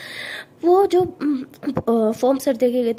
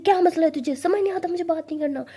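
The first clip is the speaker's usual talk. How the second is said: angry; 5 semitones higher than usual. Acted. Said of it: "गुस्से में आके कॉल अटेंड कर लेती है".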